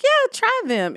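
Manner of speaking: mock-eager mom coaxing. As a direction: sell the food to your daughter. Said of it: "And I was like".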